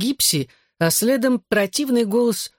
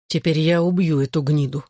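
plain reading voice

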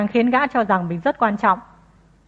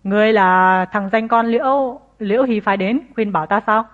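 booming voice. Acted. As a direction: roar it out like rolling thunder. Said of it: "giọng như sấm rền".

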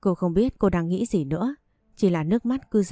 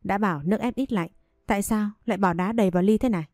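angry scolding; faster than usual. Acted. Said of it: "rồi lớn tiếng chửi cô".

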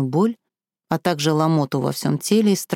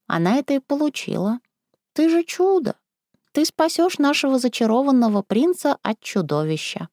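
put-on old woman; 9 semitones higher than usual. Old woman character speaks.

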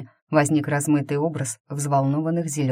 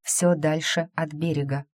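ordinary delivery, nothing marked

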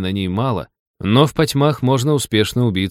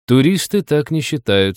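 higher-pitched sarcastic reminder; 7 semitones higher, 4 dB louder than usual. A narrator's reading. Джек reminds the forester about tourists, sarcastically. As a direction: needle him with mild sarcasm. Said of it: "саркастически напомнил Джек".

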